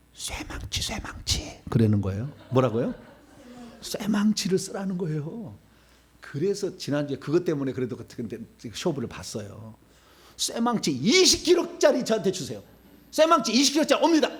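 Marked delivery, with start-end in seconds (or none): 0.1-1.6 hushed, voiceless prompting from the side; retold whispered aside; imitated whisper. Quoting wife's aside beside him. 10.4-14.3 high-pitched call for a weapon; raised, urgent acted request. Acting out calling for a spiritual hammer.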